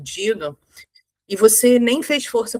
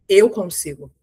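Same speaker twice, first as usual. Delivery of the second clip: "Eu consigo" said firm with an open chest; confident tone; 3 semitones lower than usual. Shown as a demonstration. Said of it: "A entonação já é completamente diferente".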